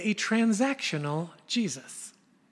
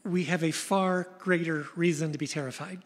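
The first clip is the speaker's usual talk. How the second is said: higher and louder, frantic disbelief; terrified disciples; 7 semitones higher, 4 dB louder than usual. Retold or imitated. Disciples reacting to Jesus calming the storm, high and frantic. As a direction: voice the panicked disciples in a rising frenzy. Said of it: "now it's like".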